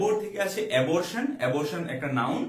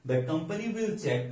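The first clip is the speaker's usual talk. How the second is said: slow dictation; much slower than usual. Shown as a demonstration. Teacher repeats example slowly.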